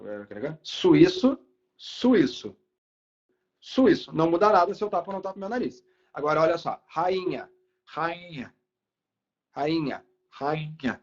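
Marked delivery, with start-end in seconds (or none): 0.6-4.1 nose pinched. Shown as a demonstration. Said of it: "Ó, tapando o nariz". 6.9-11.0 nose pinched. Shown as a demonstration. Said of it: "Ó, tapando o nariz".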